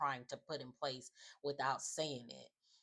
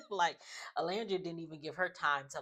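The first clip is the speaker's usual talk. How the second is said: laughing; 3 semitones higher than usual. Real, not acted. Laughing while recapping.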